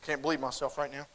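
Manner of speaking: low, very soft mock remorse; hushed, hammed-up self-reproach; imagined contrite child. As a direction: murmur it like a sheepishly sorry child. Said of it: "that little girl's gonna stand up and go".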